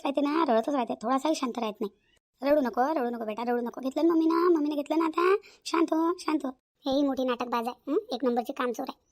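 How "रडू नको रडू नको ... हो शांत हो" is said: put-on repetitive hushing of a crying child; soothing a baby. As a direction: gently coax the baby to settle. Mother soothing her crying baby. (रडणाऱ्या बाळाला समजावत)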